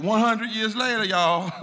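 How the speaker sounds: loud, high-pitched sarcastic exclamation; sarcastic mock outburst. Lecturer playing up Doctor King's sarcasm for the class, loud mock outburst. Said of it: "He was really being sarcastic".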